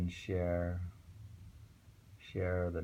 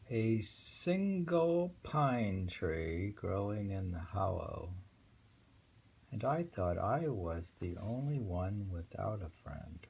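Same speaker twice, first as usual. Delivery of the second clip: poem reading. Acted. Reads the poem aloud.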